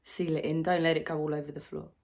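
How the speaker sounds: loud, pressured confession of failure; strained self-reproach. Acted. Struggling mother recalls the rules of motherhood, loud and strained.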